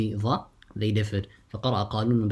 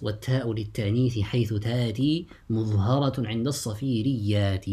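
measured recital of a teaching poem; verse recitation. Shown as a demonstration. Teacher quotes the author's verse to students, reciting.

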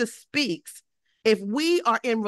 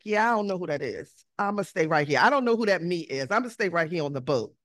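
reluctant refusal; 4 semitones lower, faster than usual. Acted. Reluctant disciples refuse to budge.

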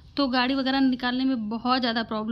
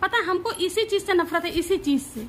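exasperated, higher-pitched griping; annoyed complaint; 4 semitones higher than usual. Real, not acted. Wife complaining to husband about getting dressed, exasperated. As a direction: vent your irritation. Real quarrel over clothes.

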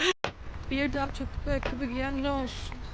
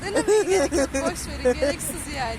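loud; 7 dB louder than usual. Real, not acted. Reacting to a nasty smell.

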